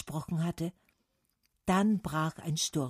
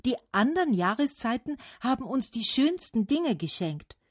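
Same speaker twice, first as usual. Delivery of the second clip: higher-pitched chorus of voices; ringing call; 7 semitones higher than usual. A narrator's reading. Trees praising the other seasons, calling out. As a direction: let it ring out. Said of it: "schallte es von allen Seiten".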